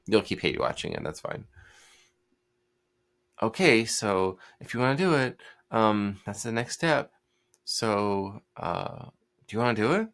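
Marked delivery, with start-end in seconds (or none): 3.4-10.1 halting, hedging, full of ums; hesitant and unsure. Shown as a demonstration. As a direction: sound apologetic, like you doubt the sale. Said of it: "Notice the difference in tone".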